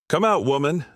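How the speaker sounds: shout. A narrator's reading. Outlaw calling to woman from ahead in the canyon, mild shout. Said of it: "the voice shouted".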